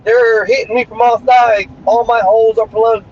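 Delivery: high-pitched panicked yelp, voicing an overloaded computer. Computer freaking out over too many devices, shrill panic. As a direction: squeal like a computer under attack. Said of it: "It's gonna freak out like".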